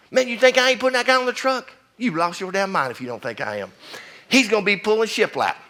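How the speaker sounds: high-pitched, emphatic mock disbelief; acted indignant retort. Firefighter retorting to his brother about truck work, worked-up. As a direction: act out a worked-up comeback.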